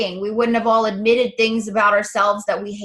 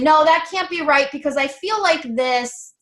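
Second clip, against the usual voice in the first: raised-pitch mock protest; argumentative; 4 semitones higher than usual. Coach voicing people who resist a new idea, argumentative. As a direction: push back against the idea, higher. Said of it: "we start to be argumentative with it".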